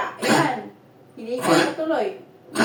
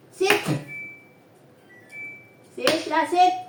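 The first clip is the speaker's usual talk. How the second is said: pet command; 4 semitones higher than usual. Real, not acted.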